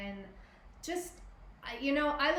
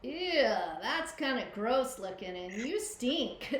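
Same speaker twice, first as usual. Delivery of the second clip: mock disgust; 2 semitones higher than usual. New mother recalling first sight of her baby, mildly disgusted. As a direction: react with playful disgust, drawing out the last words. Retells first thought at newborn.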